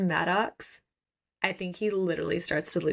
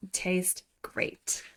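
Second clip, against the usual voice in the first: whispered "Tastes great." with no voice at all; 5 dB quieter than usual. Retold or imitated. Bastian to Shara, whispering "Tastes great.". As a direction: breathe "Tastes great." as a hushed tease.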